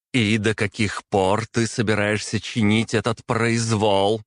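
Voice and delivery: выше, с нарастающим гневом; начинает закипать; закипая. A narrator's reading. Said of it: "начала закипать принцесса". (принцесса закипает, голос выше)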